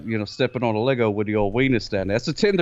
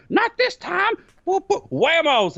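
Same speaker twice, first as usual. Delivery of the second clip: high, defiant pretend baby voice; squeaky mock defiance, then comic tumble noises; voicing his baby daughter; slower than usual. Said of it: "She's like".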